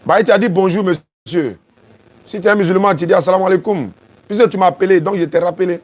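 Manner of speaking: high, loud telling-off on the phone; loud scolding. Real, not acted. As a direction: scold the caller over the line. Reproche au correspondant au téléphone. (reproche à voix forte)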